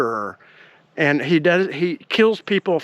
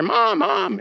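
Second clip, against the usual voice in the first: higher-pitched call through the house; retold calling out; 5 semitones higher than usual. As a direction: lightly imitate a son calling for his mother.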